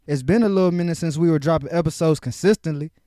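consistently leaned on, each syllable given weight; emphasis landing on consistently; stress on consistently. Shown as a demonstration. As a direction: punch the word consistently. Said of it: "throw a little emphasis on that word consistent".

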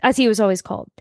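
reading a memoir's last page aloud, steady and sincere. Acted. Podcast host reads the last page to her co-host, sincere and steady. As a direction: read the closing page like a book narrator.

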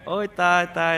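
high alarmed cry out; panicked cry. Retold or imitated. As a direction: neighbor shrieking in alarm at the gunshot. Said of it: "ร้องลั่นว่า". (เพื่อนบ้านร้องตกใจเสียงสูง)

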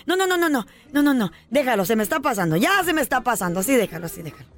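mock husband's fading alarm; calming down. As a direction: let the panic drain away.

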